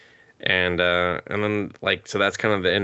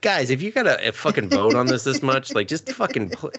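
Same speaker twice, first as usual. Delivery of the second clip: exasperated rant; 5 semitones higher than usual. Retold or imitated. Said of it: "And I'm just like".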